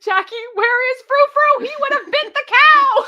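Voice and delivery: high, loud, laughing through the words; laughing shout. Real, not acted. Reading a funny line to the co-host, laughing loudly. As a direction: burst out laughing while reading.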